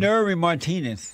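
NURI with an r in the middle; name said as Nuri. Shown as a demonstration. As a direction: say NURI as NUR-ee, no d. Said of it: "That's how you say it".

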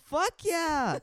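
excited high, loud cheer; Jaden. Retold or imitated. Jaden asked about his favorite artist, excited shout. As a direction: whoop it out, thrilled. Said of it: "seen Jaden get that excited about something".

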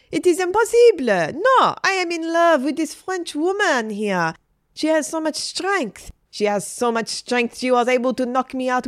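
high, impassioned declaration; protest, then gush with admiration; besotted French teacher. A narrator's reading. Teacher declares love for the Frenchwoman, impassioned.

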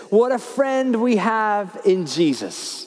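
slow, half-sung hymn line; quoting a hymn. Retold or imitated. Preacher recalls an old hymn, slow reverent quote. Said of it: "the old hymn that says".

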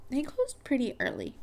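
talking through a burp; swallowing a burp mid-sentence; burping the words. Real, not acted. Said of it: "I keep having to, like, burp".

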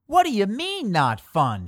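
high, mock-screamed question; a hammed-up kid's shriek, then drops. A narrator's reading. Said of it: "screamed Arfred".

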